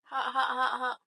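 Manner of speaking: gasping hot hot with a laugh; mouth full of hot food. Real, not acted. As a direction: mouth full, fanning the heat. Just bit hot food.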